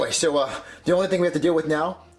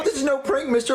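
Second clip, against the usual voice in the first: urgent insistence; 6 semitones higher than usual. Acted. Insists to disbelieving officer.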